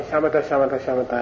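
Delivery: rattled-off repetition, fast; mindless chatter. Retold or imitated. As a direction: reel the word off like empty talk. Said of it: "People are always talking".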